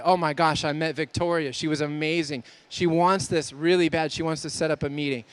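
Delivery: gushing about a hot lead, picking up speed at the end; excited voice memo. Shown as a demonstration. Presenter records an excited voice memo after a booth conversation, excited. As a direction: sound thrilled about the prospect you just met. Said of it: "Listen to the inflection in my voice".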